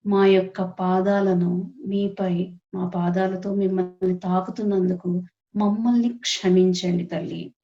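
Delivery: slow, measured prayer with pauses between phrases; guided prayer. Acted. Meditation leader asking the Mother's permission to meditate, prayerful. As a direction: lead the group in unhurried supplication.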